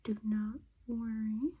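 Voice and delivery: slow whispered comfort; soft reassurance. Real, not acted. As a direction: gently hush the worry.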